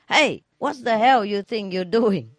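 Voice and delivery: hammed-up outrage, not full volume; mock drunk yell. Drunk driver yelling at the car in front, mild mock yell. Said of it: "come out and scream".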